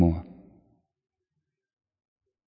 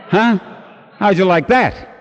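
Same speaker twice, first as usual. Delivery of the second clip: surprised; 8 semitones higher, 4 dB louder, slower than usual. Real, not acted. Surprised aside to audience.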